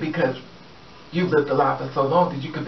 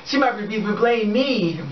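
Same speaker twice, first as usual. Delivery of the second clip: mock worry; 7 semitones higher than usual. Mock worried joke.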